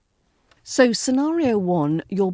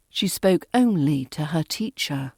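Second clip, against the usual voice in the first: "only" slightly stronger than its neighbours; stress on only; 4 semitones lower than usual. Shown as a demonstration. Teacher modelling for learners, stress on only. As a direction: put a little weight on "only". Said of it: "Only usually carries a slightly stronger stress".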